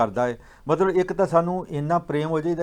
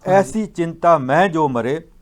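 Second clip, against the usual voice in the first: slow, louder verse recital; scripture recitation; 6 dB louder, slower than usual. Retold or imitated. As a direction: declaim the verse in measured phrases. (Gurbani ਦਾ ਹੌਲੀ ਤੇ ਉੱਚਾ ਉਚਾਰਨ)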